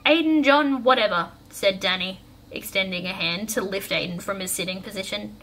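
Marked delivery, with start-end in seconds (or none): 0.1-1.3 raised, louder roll-call of a name; offhand name call; calling on a friend. A narrator's reading. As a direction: call the name out, higher and loud. Calling out names dismissively to friend.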